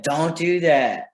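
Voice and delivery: acted exasperated telling-off; mock scolding. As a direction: stretch out a pretend parental warning. Adult scolding child once more.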